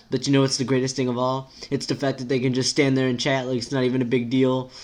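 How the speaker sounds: emphatic, lightly voiced sarcasm; sarcastic character. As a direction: insist on being thrilled, without meaning it.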